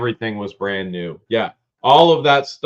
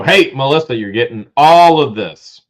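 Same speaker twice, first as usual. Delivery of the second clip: called out; 2 semitones higher, 7 dB louder than usual. Pretend. Voicing a line for helper.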